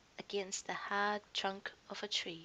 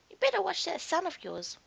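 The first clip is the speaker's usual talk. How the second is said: louder, higher scolding warning; warning lionesses; 8 semitones higher, 7 dB louder than usual. A narrator's reading. Lionesses scolding the cub's mother, stern warning. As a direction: wag a finger at the mother.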